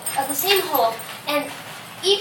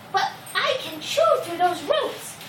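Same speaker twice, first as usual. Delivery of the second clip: little mouse; 5 semitones higher than usual. Acted. Mouse character answers the lion.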